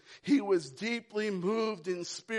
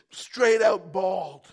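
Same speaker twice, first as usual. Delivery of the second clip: slow, loud punched words; preacher slowing to shout it; emphatic shout; 11 dB louder, slower than usual. Real, not acted. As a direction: hammer each word out. Preacher stresses the bawling.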